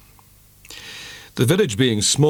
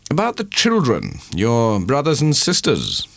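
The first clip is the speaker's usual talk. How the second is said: lightly voiced pleading suitor; Angel's voice; 6 semitones higher than usual. A narrator's reading. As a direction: coax her gently about the children.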